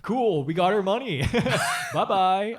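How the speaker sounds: high, laughing carefree goodbye. Retold or imitated. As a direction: chirp it out while laughing. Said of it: "our character's like".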